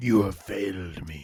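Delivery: very low, deep, hushed, soft villain-style voice. Repeating what another speaker just said, Darth Vader voice. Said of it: "like it's almost like a friggin' Darth Vader".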